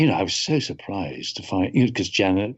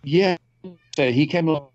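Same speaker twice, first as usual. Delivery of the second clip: choppy, glitching connection; breaking up; 5 semitones higher than usual. Real, not acted. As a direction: voice dropping out on a bad stream. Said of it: "you're breaking up a bit".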